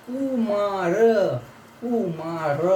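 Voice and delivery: कुमार said slowly, stress on "koo"; teacher models कुमार with a long u; pronunciation demo. Shown as a demonstration. Teacher spells out Russian letters, careful pronunciation. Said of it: "देखिए कू, के यू".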